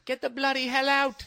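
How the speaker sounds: high-pitched hammed-up English accent; Michael Caine. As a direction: bark an exaggerated British accent. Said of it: "Michael Caine".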